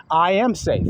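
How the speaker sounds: firm, believing declaration; mean every word of it; said with conviction. Shown as a demonstration. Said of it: "You see the attitude coming with the words?".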